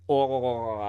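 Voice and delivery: long groan of a man taking a knee; pained grunt. Retold or imitated. Host imitates the Watcher taking a flying knee, long groan. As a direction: groan as if struck hard.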